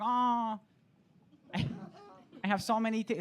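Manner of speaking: lightly voiced Thai vendor; mock stall lady; ladyboy voice. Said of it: "straight for a ladyboy voice".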